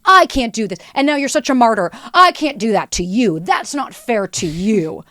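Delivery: milk the martyrdom; mock martyr. Mocking the martyr line.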